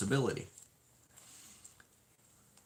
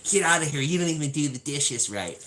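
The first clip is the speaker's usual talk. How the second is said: loud, much higher angry shout; wife chasing him out; 6 semitones higher, 6 dB louder than usual. Retold or imitated. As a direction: shoo him out of the kitchen.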